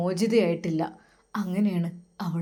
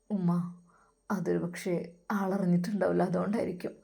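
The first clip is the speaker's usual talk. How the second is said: softer, dejected murmur; subdued; 5 dB quieter than usual. Acted. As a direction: say it half to yourself. Son dejected reply.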